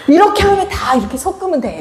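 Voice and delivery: high-pitched, giggly quote of the cook; laughing imitation. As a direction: mimic him while cracking up. Laughing imitation of cook's excuse.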